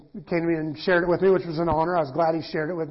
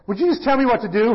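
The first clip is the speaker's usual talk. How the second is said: mock exasperation; 4 semitones higher, 3 dB louder than usual. Kids teasing, mock exasperation.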